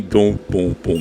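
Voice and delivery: evenly spaced booms, like arcade thumping; vocal imitation of a thumping sound effect; imitated game thumping. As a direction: mimic the game's thumping beat. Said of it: "the thumping of the, of the game".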